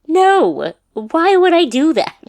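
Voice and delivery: high, loud, slow baffled stepdad; high mock stepdad. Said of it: "my stepdad was like".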